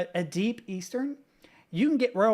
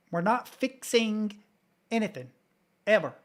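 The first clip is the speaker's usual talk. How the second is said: Eastern Kentucky accent; 3 semitones higher, 3 dB louder than usual. Shown as a demonstration. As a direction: draw it out, Kentucky style, a bit over the top. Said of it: "as close as I can get anymore".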